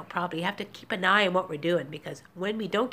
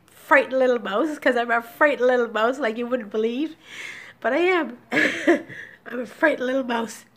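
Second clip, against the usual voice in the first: tearful laugh; 3 semitones higher, 4 dB louder than usual. Real, not acted. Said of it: "I'm tearful today".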